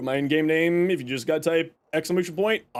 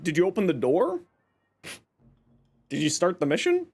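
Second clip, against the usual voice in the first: dry sarcastic questions; 2 semitones lower, faster than usual. Acted. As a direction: tease them drily. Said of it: "me being sarcastic ass as usual".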